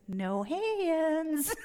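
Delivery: high, stretched-out mock plea; high comic wail. Friend on the toilet needing help, high comic wail. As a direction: imitate a helpless friend calling out high.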